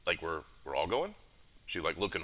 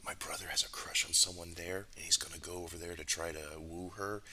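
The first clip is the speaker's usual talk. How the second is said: soft, conspiratorial aside; hushed confiding; 5 dB quieter than usual. Acted. Shallan luring friends to watch her brother fail, hushed confiding. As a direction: lean in and confide it quietly. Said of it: "kinda leans in and kinda tries to bring you in close".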